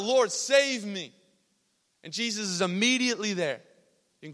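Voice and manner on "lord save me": loud, high, drawn-out plea; crying out. Retold or imitated. Sinking Peter to Jesus, crying out loudly. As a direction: act out a desperate cry for rescue. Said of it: "he cries out".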